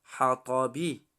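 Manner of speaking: حطبی with the ط read thick and heavy; heavy emphatic ط in حطبی. Shown as a demonstration. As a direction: give حطبی a full, heavy ط. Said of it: "حرف تا غوص خوانده می شود".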